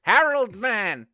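high, loud, slow villain bellow. Acted. Villain trying name with man on the end, bellowing. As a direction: stretch both words into a big bellow. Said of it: "I can't bellow Harold".

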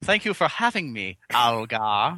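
talking funny with a hint of Chinese accent; lightly put-on Chinese accent on a guest's greeting; mock Chinese accent. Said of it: "in your racist Chinese, uh, accent there".

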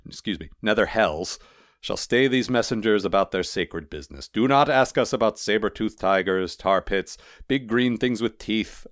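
measured recital from memory. A narrator's reading. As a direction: intone it like a memorised creed. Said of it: "golem's voice got deeper, as if he was quoting".

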